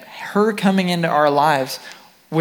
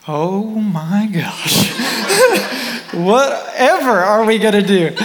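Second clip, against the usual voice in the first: higher, half-laughing mock panic; 6 semitones higher, 4 dB louder, slower than usual. Husband retelling the couple's panic to listeners, laughing mock panic. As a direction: ham up the sudden fear of parenthood.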